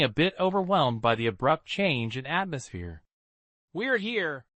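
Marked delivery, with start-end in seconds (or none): 3.7-4.5 monotone. Acted. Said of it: "The man's monotone voice".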